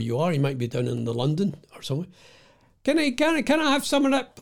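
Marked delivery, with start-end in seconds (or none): 2.8-4.4 much higher, pitched-up mock customer; high squeaky ordering voice. Customer in a pub asking for food, high and squeaky. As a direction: squeak it out like a hopeful punter. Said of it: "what kind of accent was that I was gonna do".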